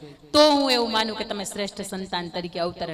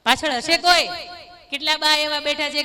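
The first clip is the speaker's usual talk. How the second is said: louder and higher, projecting to the back rows; calling out; 4 semitones higher, 4 dB louder than usual. Real, not acted. Speaker asks the back of the audience, calling out loudly. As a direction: call out across the hall.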